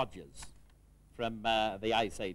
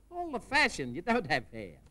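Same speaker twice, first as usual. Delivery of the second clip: laughing; 5 semitones higher than usual. Acted. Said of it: "she said".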